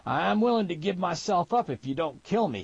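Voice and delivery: high-pitched frightened surrender; fearful pleading. A narrator's reading. Last trapper surrendering to storekeeper, fearful pleading. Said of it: "The pleading voice was ripe with the stink of fear".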